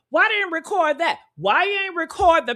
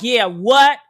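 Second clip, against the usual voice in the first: mock annoyed; 3 semitones lower, 6 dB louder than usual. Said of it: "He was annoyed".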